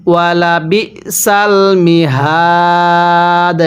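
slow, drawn-out tajweed chant; Quran recitation. Shown as a demonstration. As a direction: recite it slowly, stretching the vowels. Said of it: "এরপরে". (ধীরে টেনে কুরআন তিলাওয়াত)

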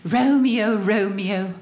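slow, hammed-up tragic Juliet; mock Juliet. Wife as Juliet complaining of the smell, mock-tragic. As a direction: declaim it like a disgusted Juliet. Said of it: "My life with this man is more like this".

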